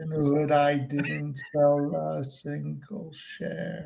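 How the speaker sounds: slow, drawn-out, every word spaced; slow over enunciating. Shown as a demonstration. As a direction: say it very slowly and deliberately. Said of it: "Would have been slowly".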